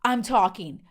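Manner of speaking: a mild impression of the husband cutting his wife off; imitating a bossy husband. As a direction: hush her like a condescending husband talking over his wife. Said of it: "he is like".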